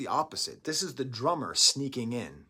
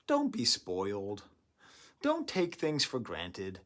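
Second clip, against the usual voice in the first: slow preachy; 3 semitones lower, slower than usual. Retold or imitated. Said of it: "getting in front of the camera and saying".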